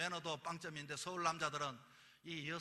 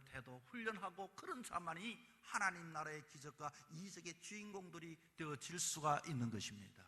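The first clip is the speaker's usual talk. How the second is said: ordinary delivery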